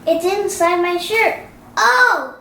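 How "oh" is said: plain reading voice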